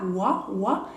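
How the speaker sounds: wa, wa, the OI sound isolated. Shown as a demonstration. Teacher isolating the OI sound for students, plain wa. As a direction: say wa twice, as in froid. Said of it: "O I es como el W A".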